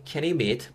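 "can you meet" run together as one phrase; linked words. Shown as a demonstration. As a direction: join "can you meet" smoothly without gaps. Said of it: "붙여서 can you meet". ("can you meet"을 붙여서 발음)

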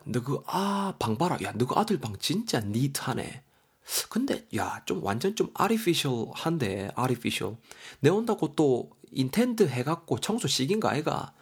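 lightly voiced neighbour marvelling at a room; lively, lilting Korean dialect, teasing and impressed; chatty dialect-speaking mother. Mother visiting a friend, remarks on the neat room, lightly acted amazement.

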